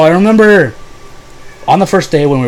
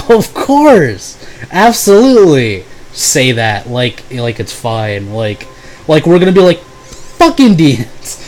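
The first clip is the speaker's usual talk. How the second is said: sarcastic agreement; slower than usual. Retold or imitated. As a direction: pretend to agree, dripping with irony. Sarcastic reply to racist remark.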